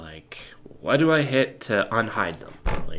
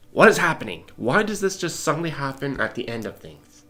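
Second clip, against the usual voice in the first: mock exasperated outburst; 2 semitones higher, 6 dB louder than usual. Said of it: "And it's like".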